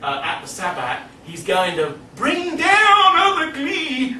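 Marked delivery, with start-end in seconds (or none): 1.2-4.1 a hint of ominous doom. Mock-dramatic Lovecraft retelling.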